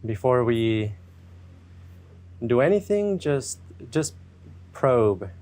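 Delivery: unhurried meditation guide with long pauses; guided meditation. Acted. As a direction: ease listeners gently into checking in with themselves.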